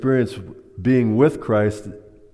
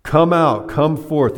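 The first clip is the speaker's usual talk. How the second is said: loud, high calling out; a ringing summons into the grave; 6 semitones higher, 5 dB louder, slower than usual. Retold or imitated. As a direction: call Lazarus from the tomb. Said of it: "he said it this time in a loud voice".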